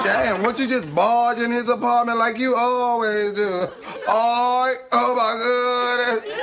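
lightly voiced sassy neighbourhood woman; bossy, teasing girl from the block; Shanae. The speaker voices Shanae all through.

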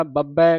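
ਬੱਬੈ with a firmly doubled middle "b"; tight ਬੱਬੈ. Shown as a demonstration. Teacher coaching pronunciation, tightly held ਬੱਬੈ. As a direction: press the lips on the double "b" in ਬੱਬੈ. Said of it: "ਕੱਸ ਕੇ ਬੋਲਣਾ".

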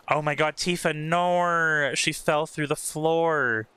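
slow, drawn-out dismay; dismayed cry. Real, not acted. Player watching Tifa fall through the floor, dismayed. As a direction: stretch the words out in alarm.

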